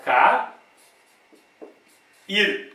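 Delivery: ca-, ir broken apart with a long pause before ir; split into syllables. Shown as a demonstration. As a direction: say ca-, then pause, then ir as a separate syllable. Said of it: "eu vou separar".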